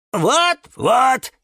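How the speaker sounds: high, loud, excited calls; shrieky-high helper voices; eager shouting. A narrator's reading. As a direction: cry out as if competing to help. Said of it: "закричали наперебой фикусы".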